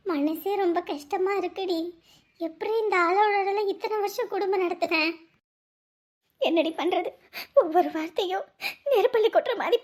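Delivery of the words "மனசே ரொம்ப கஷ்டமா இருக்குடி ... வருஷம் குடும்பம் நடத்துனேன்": sad lament. Acted. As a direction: pour out heartache slowly. Wife confiding sorrow to friend.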